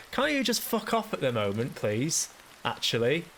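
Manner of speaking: high, strained mock-polite exasperation; exasperated brush-off. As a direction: beg the cheery voice to leave you alone, exasperated. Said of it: "and I was just like".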